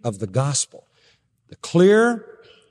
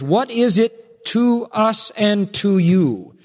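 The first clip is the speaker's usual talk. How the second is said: literal rendering; 6 semitones higher, 3 dB louder, slower than usual. Acted. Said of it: "Literally, it is".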